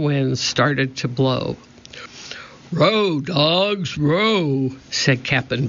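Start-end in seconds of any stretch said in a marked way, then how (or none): 2.7-4.8 pirate captain order. A narrator's reading.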